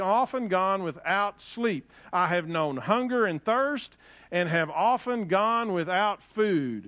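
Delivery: emphatic, rhythmic pulpit reading; scripture reading. Acted. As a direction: proclaim the list of hardships phrase by phrase. Reads scripture aloud to congregation.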